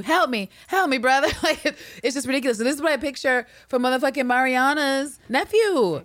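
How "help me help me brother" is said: mock plea. Dying brother parody.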